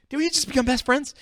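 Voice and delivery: very high, loud giddy squeal; high gleeful mock-childish question; Step Brothers quote. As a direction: squeal it like the movie. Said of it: "Step Brothers, get the reference".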